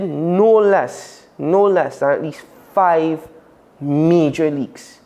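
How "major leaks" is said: "major" drawn out slowly and set apart; stress on MAJOR. Real, not acted. Host stressing how big the leaks were, emphatic on "major". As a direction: lean slowly on the word "major". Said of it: "I stress on the word major".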